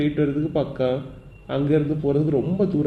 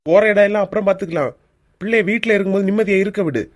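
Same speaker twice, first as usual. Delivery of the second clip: raised, higher-pitched rebuke; angry objection; 4 semitones higher, 4 dB louder than usual. Acted. Husband telling wife to let children be, angry. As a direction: insist firmly, voice lifted.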